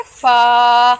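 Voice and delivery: फा said short, gently articulated; short gentle फा; softly read letter. Shown as a demonstration. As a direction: give फा a soft, short release. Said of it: "नरमी से पढ़ना है".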